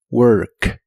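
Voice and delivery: "work" with the tongue pulled back on the r; "work" said deep and back; retracted tongue. Shown as a demonstration. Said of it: "Mantén tu lengua retraída".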